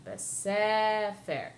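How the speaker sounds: Basefer with a long, leaned-on SE; stress on second syllable. Shown as a demonstration. Teacher shows where the accent falls, stressing SE in Basefer. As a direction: stretch the middle of Basefer slowly, ba-SEE-fer style with SE as "seh". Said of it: "accent is on the second syllable".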